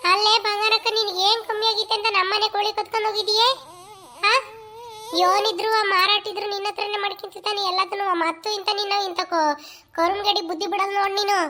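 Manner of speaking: loud, furious accusing the neighbour; angry accusation. Acted. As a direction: confront her at full volume. Accusing neighbour of stealing hens. (ಕೋಳಿ ಕದ್ದವಳ ಮೇಲೆ ಜೋರಾಗಿ ಸಿಟ್ಟಿನ ಆರೋಪ)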